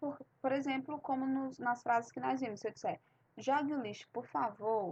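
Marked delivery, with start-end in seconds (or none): 3.4-4.9 tranquil, easygoing, gentle and calm tone. Contrasting a request and a command in portuguese, a soft, calm request. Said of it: "suave, bem tranquilo, bem solicitação".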